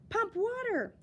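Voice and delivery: high, loud shouted order; shouting captain. Acted. Captain shouts orders as the ship sinks, loud and high. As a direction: bark it over the storm. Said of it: "shouted the captain".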